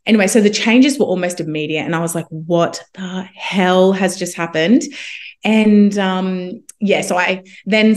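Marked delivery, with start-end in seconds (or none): 2.3-4.8 slow, stunned disbelief; drawn-out, incredulous retelling; retold astonishment. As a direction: spell out the amazement word by word. Retelling amazement at sudden changes.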